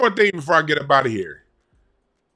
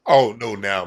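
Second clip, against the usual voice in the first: ordinary delivery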